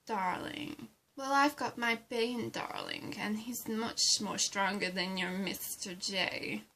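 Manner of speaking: low, disdainful one-upmanship; scornful boasting. Acted. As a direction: coolly dismiss the rival's sweetheart. Ivy scorns rival's boyfriend, boasts of hers.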